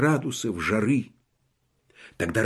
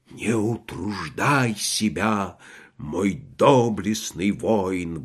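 noble exclamation; 3 semitones lower, slower than usual. Acted. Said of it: "воскликнул фельдмаршал".

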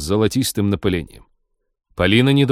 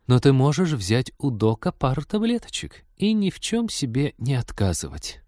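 sympathetic; 5 semitones higher than usual. A narrator's reading. Virtual cupid suggests pills to the captain, sympathetic. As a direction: coax sympathetically, easing down at the end. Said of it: "сочувственно сказала Маша".

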